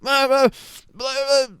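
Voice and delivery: high-pitched, garbled mock mumbling; imitated mumbling. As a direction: mumble nonsense in a high mocking voice. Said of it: "she mumbling".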